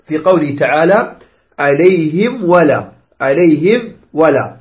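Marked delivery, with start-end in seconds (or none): 1.6-4.6 slow "عليهم", meem fully closed before "ولا"; clear meem. Shown as a demonstration. Teacher models the correct reading, clear meem. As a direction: separate "عليهم" cleanly from "ولا". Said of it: "هكذا تقرأ".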